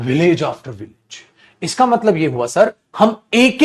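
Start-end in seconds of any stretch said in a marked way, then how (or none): 0.1-1.2 village after village drawn out slowly; slow emphatic example. Shown as a demonstration. Teacher slowly modelling the English phrase for students. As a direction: stretch it out word by word. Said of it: "तो आप बोलते हो door to door".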